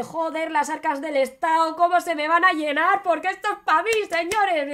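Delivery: mock greedy king; greedy glee. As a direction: crow over the riches. Greedy sultan gloats.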